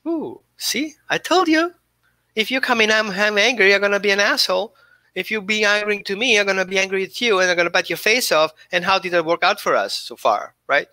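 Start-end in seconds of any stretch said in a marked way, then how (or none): 0.1-8.5 voicing the dog. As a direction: play the dog gloating, then threatening. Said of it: "And that dog is like".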